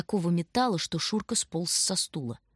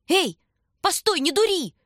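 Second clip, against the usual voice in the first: high, loud yell down the stairs; shouting after; 11 semitones higher, 5 dB louder than usual. A narrator's reading. Shurka yells after Tanya on the stairwell, loud. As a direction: call her back, alarmed.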